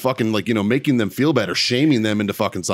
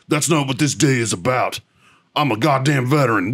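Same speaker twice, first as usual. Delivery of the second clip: mocking preachy vet. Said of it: "be like".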